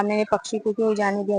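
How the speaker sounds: a hint of a hunter's despairing lament; fading lament. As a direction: mutter the regret again, trailing away. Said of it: "ऐसे बोल बोल के रहा".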